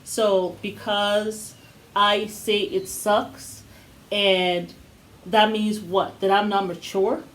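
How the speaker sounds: slow, deliberate, hurt questioning; hurt Gabriel. Retold or imitated. Podcaster voices Gabriel's confession, slow and wounded. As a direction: drag each word out in disbelief. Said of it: "he's like".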